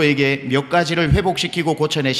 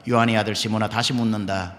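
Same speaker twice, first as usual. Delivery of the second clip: voice of the Lord; 5 semitones lower, 3 dB quieter than usual. Acted. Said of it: "주님이 또 묻습니다".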